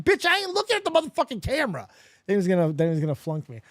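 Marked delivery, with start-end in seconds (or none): 0.0-1.9 sassy retort. Retold or imitated. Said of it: "I was like".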